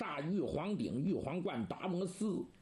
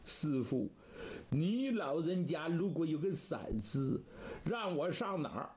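tearful plea. Acted. Disciple alone under a tree mourns his master, tearful plea. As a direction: mourn your master through tears. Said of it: "眼泪儿掉下".

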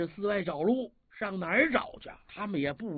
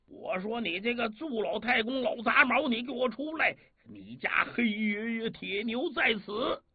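mild mock shout; 3 semitones higher than usual. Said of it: "隔着岸就喊".

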